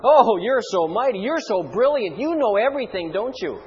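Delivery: mock praise, dripping sarcasm; sarcastic. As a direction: sneer the compliments. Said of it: "you see the sarcasm".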